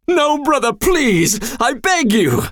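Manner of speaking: high, desperate demon plea; high frantic begging voice. Acted. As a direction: plead for your life. Skarl begs before the hammer.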